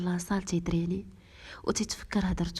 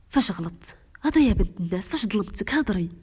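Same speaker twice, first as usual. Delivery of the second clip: louder, irritated husband demanding answers; angry retort; 5 dB louder than usual. Acted. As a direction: push back at her, sharp and loud. Husband snaps back at wife.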